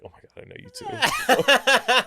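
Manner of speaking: high, slow, gushing with a laugh; excited squeal. Retold or imitated. Starstruck reply to Victoria Justice, high laughing gush. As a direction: starstruck fan losing it on meeting Victoria.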